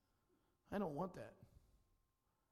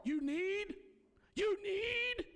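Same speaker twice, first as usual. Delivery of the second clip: barked sir yes sir; 10 semitones higher, 4 dB louder, much slower than usual. Retold or imitated. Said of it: "drill instructor repeating, mocking".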